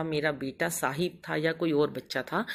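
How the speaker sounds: usual speaking voice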